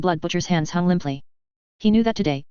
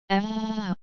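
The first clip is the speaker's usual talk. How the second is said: shrill excited scream; 3 semitones higher, 6 dB quieter than usual. Acted. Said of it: "shrill and excited scream".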